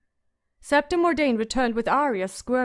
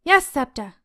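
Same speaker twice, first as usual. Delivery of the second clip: louder, calling through the door; 3 semitones higher, 7 dB louder than usual. A narrator's reading. Sansa calls back through the door to the Septa. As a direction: call it out to the Septa. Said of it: "she called out".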